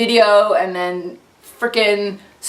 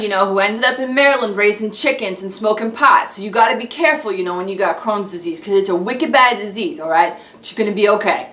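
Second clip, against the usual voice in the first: Boston local giving blunt advice; lively, chatty Boston accent. Acted. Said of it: "that is Little Boston".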